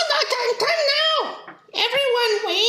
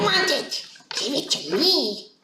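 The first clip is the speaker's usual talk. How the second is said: low creature voice; 8 semitones lower than usual. Acted. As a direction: croak it out like a goblin. Player voices a greedy creature.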